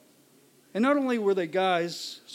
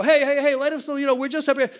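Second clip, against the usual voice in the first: higher, hurried appeasing voice; retold anxious pleading; 6 semitones higher, 5 dB louder than usual. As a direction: try to calm angry men. Older boy pleading with angry men.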